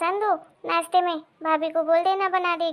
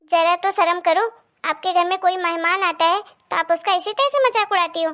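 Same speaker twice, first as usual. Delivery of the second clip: indignant scolding of a sister-in-law; mildly heated reproach; flaring up. Acted. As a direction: take offence and tell her off. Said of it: "तू क्यों भड़क रही है".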